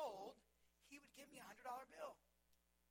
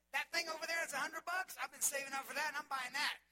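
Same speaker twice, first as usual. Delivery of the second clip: proud excitement; 5 semitones higher, 11 dB louder than usual. Retold or imitated. Kid proudly buying big toy.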